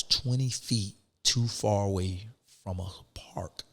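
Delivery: breathy hushed whisper, as if sharing a secret. Real, not acted. Telling the host in a whisper about the park rule. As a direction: drop to a whisper for the absurd part.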